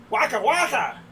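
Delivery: Fozzie Bear voice. Retold or imitated. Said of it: "From the Muppets".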